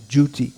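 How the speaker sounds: "duty" begun with a j sound, like "juty"; Scottish-college pronunciation of duty. Shown as a demonstration. Lecturer showing what Scottish colleges taught, "duty" as "juty". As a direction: say "duty" as "JOO-tee". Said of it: "used to pronounce it like that".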